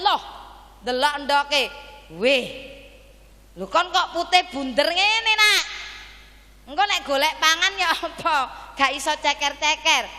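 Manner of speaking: high, loud hen aghast at her egg; shrieking mother hen. Acted. Hen crying out at her round white egg, shrieking. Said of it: "Setelah petok-petok dia teriak".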